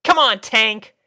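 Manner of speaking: high, loud call. A narrator's reading. Rainbow calling Tank before zooming off. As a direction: call to your partner as you take off. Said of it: "she called".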